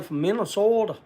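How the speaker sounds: Minnesota accent. Shown as a demonstration. Showing how a buddy from up there talks, Minnesota accent. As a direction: put on a Minnesota accent for the place name. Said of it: "that's the way he says".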